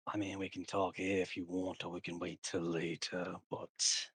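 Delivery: lightly voiced schemer, taking his time; sly sword character. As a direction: draw it out with deliberate pauses. Game master voices a character.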